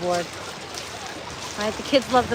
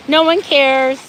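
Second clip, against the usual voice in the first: louder, imitating a bored viewer; mock heckler; 2 semitones higher, 6 dB louder, slower than usual. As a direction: sneer like a heckler in the comments. Mocking imagined viewer.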